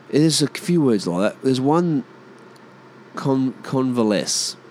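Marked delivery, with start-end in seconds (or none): 3.2-4.6 word sounded out carefully; careful, deliberate CON-va-LESS; slowed down. Shown as a demonstration. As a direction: say CONVALESCE slowly, testing it. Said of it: "when I slow it down".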